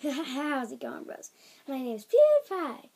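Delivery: girl-voiced take on a YouTuber intro; slow greeting, building to a loud name; PewDiePie. Kid retrying a YouTuber's intro, hammed-up impression. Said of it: "so I sound like Marzia doing that".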